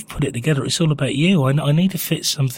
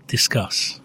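whispered; 4 dB quieter than usual. Acted. Posing listener question.

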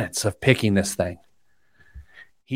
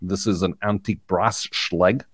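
locksmith impression; 4 semitones lower than usual. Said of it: "and he goes".

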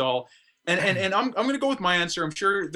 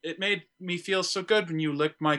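Siri voice. Acted. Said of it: "having Siri say".

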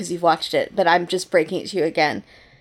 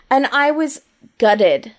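slow, mock British "gutted"; British accent; 3 semitones higher, slower than usual. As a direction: say it like a Brit. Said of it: "It's like I'm British".

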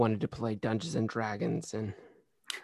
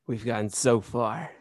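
usual speaking voice

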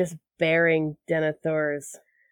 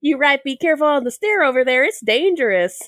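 fast, higher, louder Southern warning; southern accent; 7 semitones higher, 5 dB louder, faster than usual. Pretend. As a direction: hurry a folksy warning. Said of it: "Witch King with a southern accent".

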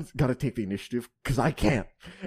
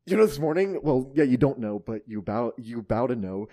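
dramatic reading; 6 dB louder than usual. Shown as a demonstration. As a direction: read it like a dramatic monologue. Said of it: "until I read this".

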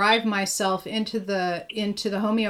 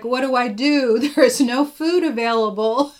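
louder, hammed-up panicked quote; mock panic; 5 dB louder than usual. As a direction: mimic people panicking, half laughing. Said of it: "start panicking and going like".

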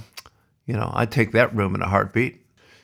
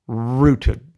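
put-on "rooted" said with a broad Aussie accent, a little louder; 4 dB louder than usual. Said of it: "excuse that bad Aussie accent before".

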